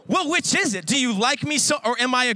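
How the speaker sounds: high, laughing protest at the crush; indignant. Retold or imitated. Student protesting the mixed message from a crush, laughing. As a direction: demand an answer, half laughing. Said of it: "reply to crush".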